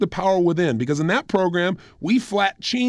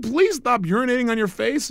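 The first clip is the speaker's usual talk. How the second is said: the same absurd line again, pitched higher and pressing; higher insistent retake of the absurd line; insistent repeat; 5 semitones higher than usual. Retold or imitated. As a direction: repeat it higher, pushing the point home.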